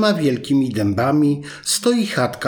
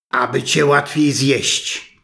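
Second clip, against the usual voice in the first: wolf unmasked. Acted. Wolf answering the last question, in a slow menacing voice. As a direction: let the threat land before the pounce.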